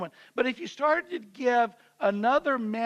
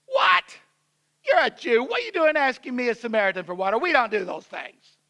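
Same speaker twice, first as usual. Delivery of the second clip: sharp, louder challenge, opening with a loud What; picking a fight; 4 dB louder than usual. Acted. Samaritan woman challenging Jesus at the well, combative. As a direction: pick a fight with the stranger. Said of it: "She tries to pick a fight with him".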